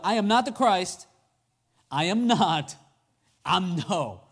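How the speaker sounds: "I am not" said firmly, set apart by pauses; emphatic, separated denials down to "no"; escalating denial. Acted. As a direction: punch out "I am not the Christ", then ever shorter denials. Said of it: "he is elevating".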